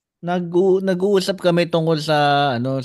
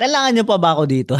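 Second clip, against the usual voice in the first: fast, irritated question to the boss; annoyed retort; 3 semitones higher, faster than usual. Retold or imitated. To coworkers talking in their language, irritated. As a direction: snap it out, fed up. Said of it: "nainis ako".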